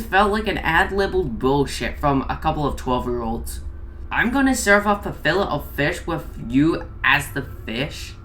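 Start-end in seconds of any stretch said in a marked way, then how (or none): 4.1-8.1 mocking quote. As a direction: read the line back in disbelief.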